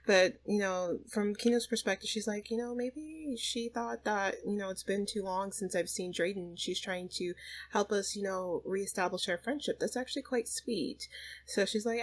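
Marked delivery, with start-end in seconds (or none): 2.5-11.1 musing. Acted. Inner thoughts of voiced mother.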